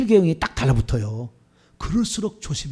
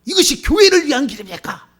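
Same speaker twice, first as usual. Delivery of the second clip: high, raised indignant challenge; mock fury, pitched well up; acted hot-tempered outburst; 9 semitones higher, 8 dB louder than usual. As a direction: play an elder suddenly flaring up. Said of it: "혈기가 막 나와".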